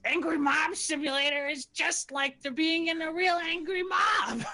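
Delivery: high shouting goblin voice; excited goblin. Acted. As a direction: yell it with gleeful excitement. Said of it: "just says".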